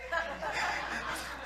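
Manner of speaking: high unvoiced laugh; airy laugh at his own joke; breathy laugh. Real, not acted. Laugh after teasing.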